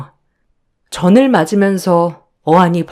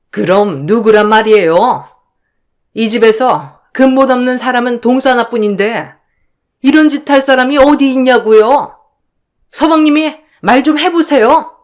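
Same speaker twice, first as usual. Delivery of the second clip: higher, contemptuous accusing voice; scornful sister-in-law; 5 semitones higher than usual. Acted. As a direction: sneer down at the younger in-law. 형님 answers back. (높고 비아냥대는 형님 목소리)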